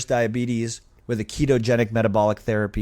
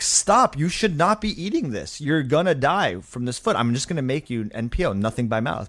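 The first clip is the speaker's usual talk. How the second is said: scolding doctor. Retold or imitated. Doctor scolding patient about his surgery, firm. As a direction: scold him, then lay out the plan.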